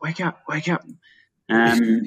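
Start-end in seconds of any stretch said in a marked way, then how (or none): 0.0-0.8 high, barely audible whisper. Retelling waking sleeping crewmates on the boat: imitating a whisper. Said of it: "maybe a whisper".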